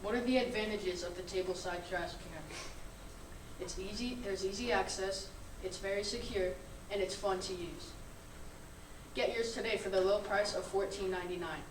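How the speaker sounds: upbeat infomercial voice; chipper 1950s ad. Acted. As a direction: sell it like an old TV ad. Student reads a mock product ad.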